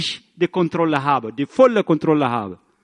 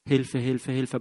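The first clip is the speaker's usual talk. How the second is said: softer, muttered call for help; quiet inner panic; 5 semitones lower, 6 dB quieter than usual. Retold or imitated. Preacher recalling his own fearful thoughts, subdued and softer. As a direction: murmur it as your own worried thought. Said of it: "So habe ich auch gedacht".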